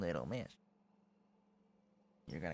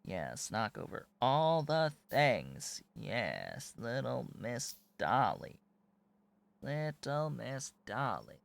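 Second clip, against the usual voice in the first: slow cooing pet talk; 3 semitones higher, slower than usual. Real, not acted. Cooing at kitten.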